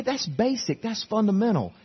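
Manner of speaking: playing the churchgoer who thinks it's too simple; mock objector. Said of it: "Oh, you say".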